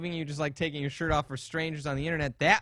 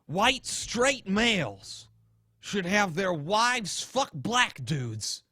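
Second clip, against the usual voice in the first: Bill Nye impression. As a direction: play a TV science guy lecturing the audience. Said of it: "I can't do this voice forever".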